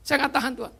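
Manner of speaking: high, soft imitation of a tearful plea; retold tearful plea. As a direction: voice a crying woman's plea to God, high and hushed. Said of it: "Dan dia nangis di situ". (tiruan ratapan lirih bernada tinggi)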